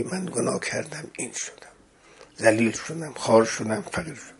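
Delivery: hushed, fading, broken-down admission; humbled confession. Acted. Zuleikha confessing to Yusuf, humbled. (اعتراف آرام و شکسته)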